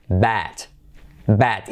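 bat with an open, a-like e; bat, mouth wide; bat, wide open vowel. Shown as a demonstration. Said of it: "la E abierta casi como una A".

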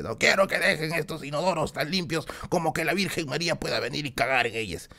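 lightly imitated drill sergeant; a hint of an instructor dressing down recruits; Sargento Hartman. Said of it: "del sargento Hartman, ¿no? Ese que dice".

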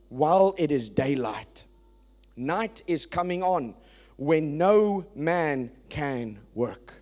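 slow, weighty reading of the verse; scripture reading. Acted. Preacher reading Jesus' words to the congregation, slow and solemn. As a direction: read it like sacred text, each word weighed.

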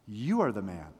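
low, solemn accusation; grave confrontation. Acted. Nathan confronting David over his sin, grave confrontation. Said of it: "one of the most powerful confrontations".

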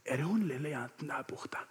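soft, whispered retold aside; hushed question. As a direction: drop to a near whisper, tentatively pointing someone out. Retold helper cautiously pointing out girl.

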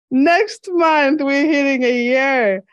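high, delighted and laughing; excited. Real, not acted. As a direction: burst out in happy disbelief. Surprised at podcast anniversary.

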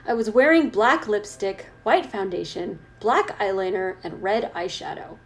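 measured fan fiction read-aloud; story narration. Acted. Reader reciting goth fan fiction to co-host, story narration. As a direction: read it out with weight on the descriptions.

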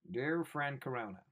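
a lightly voiced earnest celebrity; a hint of a sincere Hollywood star; mock Tom Hanks. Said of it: "Hanks would be like".

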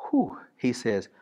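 slow breathy whisper aside; hushed preacher's aside. Real, not acted. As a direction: drop to a hush for the next line.

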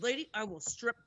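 retold furious ultimatum; mad. Traveler threatening to strip at security, mad. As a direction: threaten the screener, quickening toward the end. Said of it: "I was so mad".

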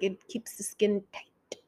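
slow, hushed whisper; drawn-out whispered impression; Eartha Kitt. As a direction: imitate a diva whispering slowly and softly. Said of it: "when Eartha Kitt was, uh, drinking".

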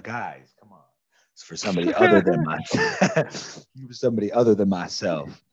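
lightly voiced patriotic officer, rousing; grand recruiter speech. A hint of a corporal recruiting Theodore, rousing pitch. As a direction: sell him on heroism like a recruitment ad.

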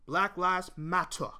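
slow, half-hearted British accent; a deliberately bad British accent, barely put on; clumsy British accent, taken slowly; terrible British accent. Shown as a demonstration. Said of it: "That's a terrible British accent".

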